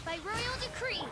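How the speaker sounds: slow, loud royal battle call; battle cry. Acted. Knight shouting a royal command in battle. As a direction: proclaim it as you strike.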